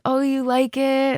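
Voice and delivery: high, slow mock coy question; fake shyness. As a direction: play it falsely shy and unconvincing. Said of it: "most unconvincing coy impression".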